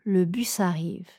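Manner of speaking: le bus arrive, le S lié à arrive; enchaînez le S de bus sur arrive; enchaînement démontré. Shown as a demonstration. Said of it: "Dans la phrase suivante". (enchaînement du S de bus)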